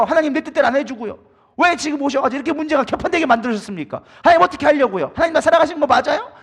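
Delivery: mock-indignant demanding of God; arguing with God. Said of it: "막 이러면서 우리가 따지기 시작하죠".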